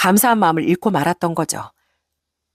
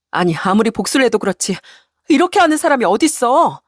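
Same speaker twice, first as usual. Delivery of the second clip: indignant wife; 4 semitones higher than usual. Acted. Wife protests cafe sale.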